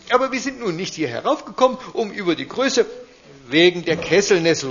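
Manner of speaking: high eager little duke voice; a small ruler in a high voice; little grand duke calling. Acted. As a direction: chime in high and insistent. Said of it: "ruft der kleine Großherzog".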